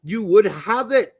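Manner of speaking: lightly put-on posh English accent, snobby; posh Englishman. Host reads out a snobby public response, mock posh English. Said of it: "I had to read it as a posh Englishman".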